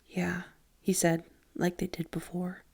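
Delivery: soft unvoiced whisper; boy confessing the old beating. A narrator's reading. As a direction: breathe the words out. Johnny confirms quietly.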